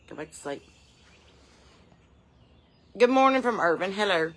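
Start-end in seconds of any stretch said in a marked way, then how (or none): 0.1-0.6 quiet cooing reassurance; hushed soothing. Real, not acted. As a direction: lull it back to sleep. Soothing sleepy baby turkey.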